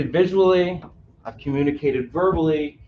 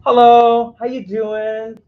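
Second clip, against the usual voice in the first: cheery greeting; 5 semitones higher, 11 dB louder, much slower than usual. Shown as a demonstration. Demo greeting in caregiving lesson.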